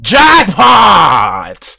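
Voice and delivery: loud, long-held holler; celebratory shout. Real, not acted. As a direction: belt it out like a big win.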